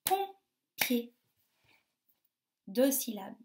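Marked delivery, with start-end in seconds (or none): 0.0-1.1 POMPIER as pom, pause, pier, pitched up; split into syllables. Shown as a demonstration. Teacher gives children a word, POMPIER split in two syllables. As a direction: break POMPIER into two separate beats. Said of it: "Il y a combien de syllabes".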